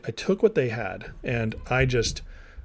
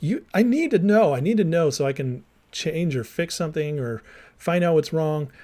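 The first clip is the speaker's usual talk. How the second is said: retold desperate demand; 4 semitones higher than usual. Demanding answers from wife.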